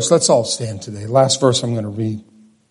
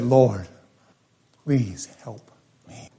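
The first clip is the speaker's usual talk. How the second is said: pleading woman; 4 semitones lower, 6 dB quieter, slower than usual. Acted. Kneeling woman pleads with Jesus.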